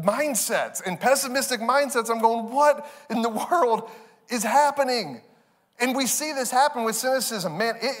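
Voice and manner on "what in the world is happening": baffled. Retold or imitated. Dad baffled as night collapses.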